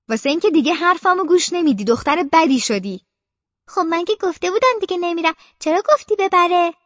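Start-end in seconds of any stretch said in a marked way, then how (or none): 0.1-3.0 mother's reproach, slowing on the last words; scolding mother. Acted. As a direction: tell her she's been a bad girl.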